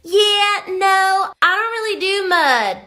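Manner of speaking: Rosetta. Acted. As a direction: lean into a high, loose-mouthed drawl. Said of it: "I'm gonna lean into the drawl, pitch my voice up".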